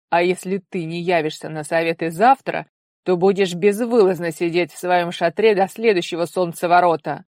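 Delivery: loud, firm threat; stern ultimatum. A narrator's reading. Father threatening his daughter with house arrest, loud and stern. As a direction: lay down the sentence. Father sets further punishment.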